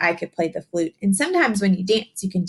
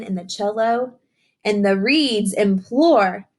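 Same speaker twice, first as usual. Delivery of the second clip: picture book reading; 3 semitones higher, slower than usual. Acted. Teacher reading a rhyming book to young children, sing-song storytelling. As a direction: read the rhyme to the children, savouring each line.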